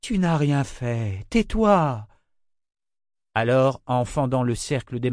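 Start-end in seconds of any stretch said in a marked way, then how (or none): 0.0-2.1 annoyed hushing, rising to a higher pitch; exasperated scolding; irritated. Acted. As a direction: cut off the apologies with impatience. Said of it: "sur un ton irrité".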